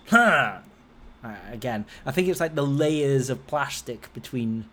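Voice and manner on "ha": muffled shout. Retold or imitated. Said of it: "over her head and goes".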